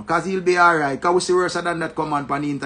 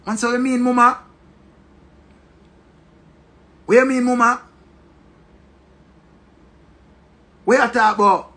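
higher-pitched mock bewilderment; taken aback; 6 semitones higher, 3 dB louder than usual. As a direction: imitate a boyfriend protesting, pitched up. Acted reply to angry girlfriend.

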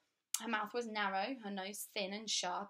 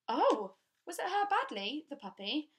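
put-on higher, louder girlish worry; girl worried about the puppy, high and louder; anxious young girl; 6 semitones higher, 7 dB louder than usual. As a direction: ask fearing for the puppy. Child Maya asks anxiously.

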